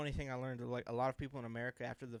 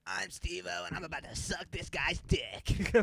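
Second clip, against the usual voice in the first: higher, slow raspy stuntman intro; Steve-O; 4 semitones higher, slower than usual. Acted. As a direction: announce it in a drawn-out raspy yell. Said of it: "I could do a Steve-O impression".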